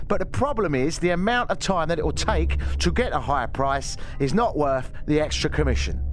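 menacing Cockney gangster explains realtors over ominous music; Bricktop impression. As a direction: lecture like a menacing Cockney hard man. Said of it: "maybe I should do a bit of Bricktop".

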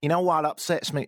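imitated Texan woman; attempted Texan accent. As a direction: have a rough bash at Texan. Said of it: "it's not gonna be great".

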